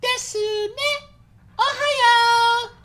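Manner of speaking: put-on squealing high kawaii anime girl; excited anime fan. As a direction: shriek it like a cutesy anime girl. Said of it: "Voice is scarier than anything".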